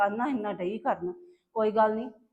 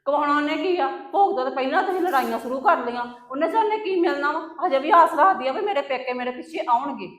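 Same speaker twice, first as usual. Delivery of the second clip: louder, sharp quarrelling retort; angry retort; 4 semitones higher, 5 dB louder than usual. Acted. Elder sister-in-law snapping back at the younger one, angry. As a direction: throw it back at her in anger.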